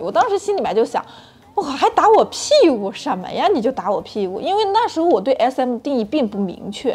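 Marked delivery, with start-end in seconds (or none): 1.6-4.4 indignant retort, pitched up and louder at first; defiant. Retold or imitated. Speaker replays her inner protest to listeners, defiant. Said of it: "内心的那种不服气就上来了".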